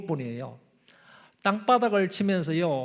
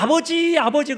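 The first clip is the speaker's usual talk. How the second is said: high ringing cry of Father; pleading high call of Father; 9 semitones higher, 5 dB louder than usual. Shown as a demonstration. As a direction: call out to God as a child. Preacher models calling Father.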